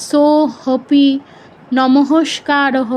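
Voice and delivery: "সো হপি" with an audible h for the silent avagraha; wrong reading with হ. Shown as a demonstration. Teacher quoting a common Sanskrit misreading, h sounded in হপি. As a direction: say an h in "হপি" and at the end of "নমস্কারহ". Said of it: "এরকম বলে".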